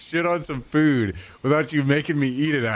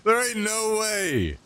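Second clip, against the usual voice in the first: stunned disbelief; 7 semitones higher than usual. Real, not acted. Disbelief at the food.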